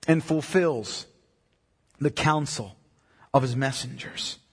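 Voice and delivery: slow reading in measured phrases, softening at the close; solemn scripture reading. Acted. Preacher reading the Lord's words from Isaiah, slow and solemn. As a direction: read it out with weight and long pauses. Reads scripture aloud slowly.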